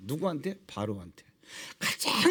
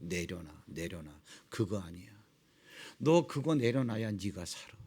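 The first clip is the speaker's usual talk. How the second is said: much softer, lower voice urging to let go; quiet coaxing; 9 dB quieter than usual. Acted. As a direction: hush it down and coax gently. God trains Moses to let go. (열등감을 내려놓으라고 타이르는 하나님의 낮고 아주 조용한 목소리)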